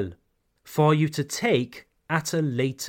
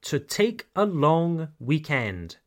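slow teaching model. Shown as a demonstration. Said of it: "a good alternative is to take".

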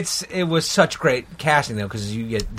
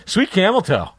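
raised, laughing impression of the line; laughing quote; 7 semitones higher than usual. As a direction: giggle through the quoted line. Quoting the character's line.

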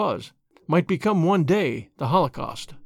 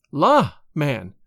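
flippant; 3 semitones lower, 3 dB louder than usual. A narrator's reading. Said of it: "with a return of her assumed flippancy".

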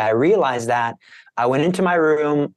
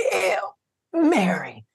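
strained, choked squeak; 4 semitones higher, much slower than usual. Retold or imitated. Choked under attack, squeezing out a prayer, strained squeak. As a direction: force the words out through a choked throat. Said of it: "to just squeak them out".

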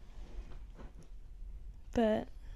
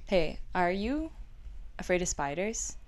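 super chill; 2 semitones lower, 7 dB quieter than usual. Retold or imitated. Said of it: "super chill".

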